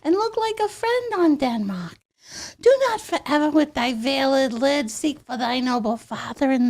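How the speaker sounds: light ditzy Shakespeare recital. Pretend. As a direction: recite Hamlet like a bubbly ditz. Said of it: "that was my pop star version".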